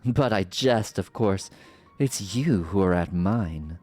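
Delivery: regal, mocking sorceress voice; theatrical sorceress villain. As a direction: purr the lines like a smug villain. Voicing villain sorceress dialogue.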